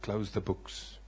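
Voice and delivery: low, soft, slow voice from above; a gentle divine voice, low and hushed; voice of the Holy Spirit. Retold or imitated. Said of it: "He says to me".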